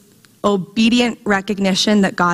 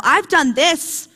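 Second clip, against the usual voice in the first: indignant, pleading list of good deeds; insistent proclaiming; 6 semitones higher than usual. Acted. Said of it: "He's just proclaiming over and over".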